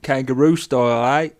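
loud mock Aussie challenge; Australian accent. Comic voices a kangaroo challenging a man to box, Australian accent. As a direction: put on a cocky Australian accent.

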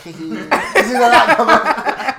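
put-on high, slow, laughing drunk voice; imitating drunk friend. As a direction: play a giggly drunk mate. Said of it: "Ryan just laughs himself on Snap".

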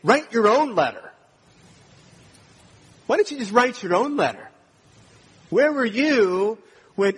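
high, loud mock outrage; hammed-up hurt indignation, loud and high; indignant rebuke. Imagined angry rebuke in Paul's voice.

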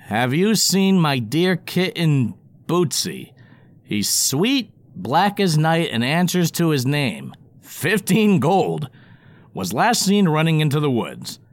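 lightly voiced worried lady, slow; fussy cat owner. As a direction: read the lost-cat notice. Notice read in owner's voice.

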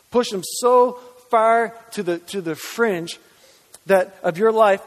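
preacher stretching out pushing Jesus to the fringe; slow emphatic push. Acted. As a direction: stretch the words out, then drop.

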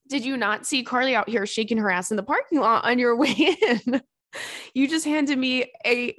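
laughing through a mock rant; laughing mock scolding. Mocking a Ruby Tuesday customer, laughing.

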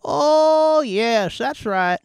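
put-on high cackling old lady; grandma voice. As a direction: lewd old granny, gleeful and high. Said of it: "Your grandma voice".

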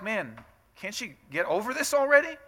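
high, exasperated complaint; mock annoyance. Imagined God annoyed with her suffering, exasperated. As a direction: voice an impatient God, fed up. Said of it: "he's kinda like".

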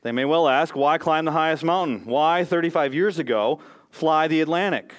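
emphatic presidential oration; deliberate, projected speech with weighty pauses; JFK. Acted. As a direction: declaim it slowly like a political address. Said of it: "he says this to them".

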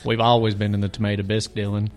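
lightly put-on East Tennessee accent, played straight. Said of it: "an East Tennessee accent".

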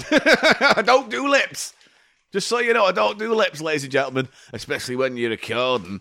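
high-pitched mocking northern accent; bad northern accent. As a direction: mimic them in a hammed-up northern English accent. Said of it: "just in a bad northern accent".

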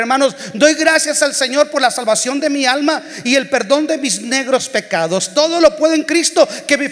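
lightly voiced devout sister giving testimony; a touch of the eager church sister, quickening at the end; imitating church sister. Preacher mimics the same sister testifying every service, lightly voiced. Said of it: "llegaba la misma hermana de siempre".

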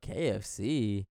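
low, drawn-out disbelieving question; retold slow disbelief; incredulous. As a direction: repeat it slowly, as if unable to believe it. Retelling disbelief at food choice.

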